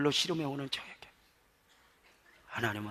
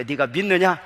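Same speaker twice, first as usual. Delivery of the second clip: mildly raised challenge; a little louder; 3 semitones higher, 11 dB louder than usual. Shown as a demonstration. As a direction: push the question up a notch. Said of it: "더 크게". (조금 더 크게 묻기)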